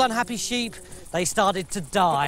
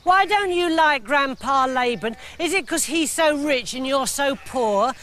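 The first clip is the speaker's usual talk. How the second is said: put-on higher cheeky kid asking aloud; squeaky child voice; 5 semitones higher than usual. Joseph quizzing his dad in public, lightly squeaky. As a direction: innocent little boy, lightly voiced. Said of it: "in this loud, squeaky voice".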